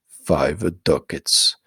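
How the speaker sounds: cold demand. Acted. Priest demands payment.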